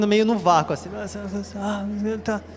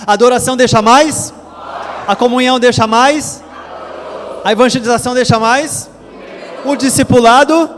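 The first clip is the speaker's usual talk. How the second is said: raised, louder call-and-response questions; chanting leader calls louder; 3 semitones higher than usual. Shown as a demonstration. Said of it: "Vamos falar mais forte".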